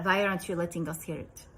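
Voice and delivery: lightly imitated Russian accent. Russian mother questioning the woman with the phone, Russian accent. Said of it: "this is my best Russian accent".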